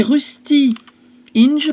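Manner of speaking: slow, careful English with a French accent. Real, not acted. Seller reading out an ink colour name, French-accented English. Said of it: "pardon pour mon anglais".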